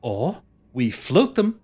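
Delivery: exasperated explaining. Acted. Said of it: "puts his hands on his temples and goes".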